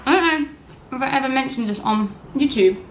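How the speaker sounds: words round a bite of food; chewing while talking. Real, not acted. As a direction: chew and talk at once. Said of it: "Sorry, I'm chewing so aggressively".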